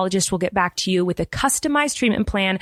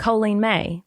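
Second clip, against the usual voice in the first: Kansas City drawl; slower than usual. Shown as a demonstration. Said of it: "it sounds, you know, Colleen".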